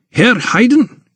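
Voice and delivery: put-on high, delighted hail to an old acquaintance; high-pitched familiar welcome; familiar greeting. A narrator's reading. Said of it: "He greeted him familiarly".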